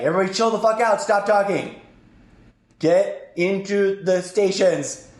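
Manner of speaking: reenacted take-charge command; taking control. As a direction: bark orders to a panicking crew. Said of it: "I took control".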